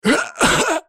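high, sharp pained cough. A narrator's reading. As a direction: cough it up in pain. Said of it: "Вырвалось у него вместе с каплями крови".

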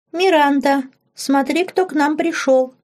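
put-on high little girl's voice, calling out brightly; thin childish voice. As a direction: play a small girl excitedly greeting a visitor. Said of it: "заговорила она тонким детским голоском".

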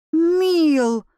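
sharp loud shout, pitch jumping up; shouting a name. A narrator's reading. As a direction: call the name out in alarm. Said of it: "крикнула". (резкий громкий окрик)

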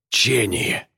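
high, soft strained word end; gasped-out syllable. A narrator's reading. Bound man finishes his broken word, high and weak. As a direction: push out the last syllable on a spent breath. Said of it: "Глубокий вдох".

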